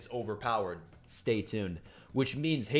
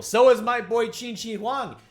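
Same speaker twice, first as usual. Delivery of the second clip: higher and louder, laughing along with the characters; gleeful, giggling hype; giddy excitement; 9 semitones higher, 5 dB louder than usual. Real, not acted. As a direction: get swept up in the laughter.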